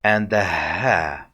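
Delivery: plain open h in "ha"; simple ha. Shown as a demonstration. Teacher introduces three letters together, simple airy ha. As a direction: let the air out easily on "ha", slowly. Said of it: "just you letting the air out".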